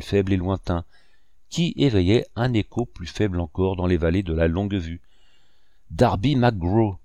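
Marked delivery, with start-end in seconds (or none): 5.9-7.0 slow, drawn-out wavering call from far away; quavering ghostly call. A narrator's reading. Ghostly voice calls a dead shipmate's name, slow and quavering. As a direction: stretch the name out like a faint ghost calling. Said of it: "chevrotait la voix".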